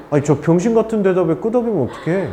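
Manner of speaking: fast, laughing exasperation; laughing disbelief. Real, not acted. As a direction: laugh at the silly nod in disbelief. Teacher laughs at nodding. (웃음 섞인 황당함)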